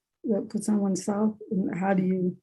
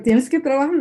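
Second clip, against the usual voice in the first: raised, louder mock mother's command; imitating her mother; 5 semitones higher, 5 dB louder than usual. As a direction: echo mom's order a bit higher and louder. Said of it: "It's like".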